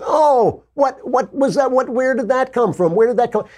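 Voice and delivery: high, hammed-up innocent gasp of surprise; mock surprise. Mocking the media's fake shock at Trump, high and hammed-up. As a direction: play dumb, shocked and squeaky. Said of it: "And it's like".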